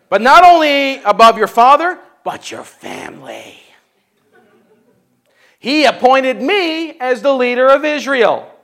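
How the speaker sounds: proud proclamation. Acted. David retorting, reading.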